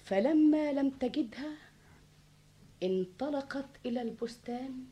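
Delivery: storyteller narration over music; arabic grandma folk tale. A narrator's reading. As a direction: tell it like an old fable.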